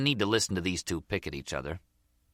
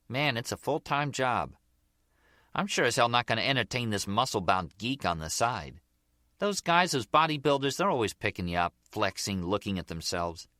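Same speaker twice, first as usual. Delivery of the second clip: Gloria, fed up; 2 semitones higher than usual. Acted. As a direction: complain about men in a lightly acted voice. Voices Gloria complaining about bodybuilders.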